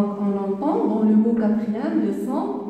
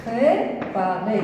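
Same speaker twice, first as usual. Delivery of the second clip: drawn out "Préparer"; slow syllables; slower than usual. Shown as a demonstration. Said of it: "séparer les syllabes".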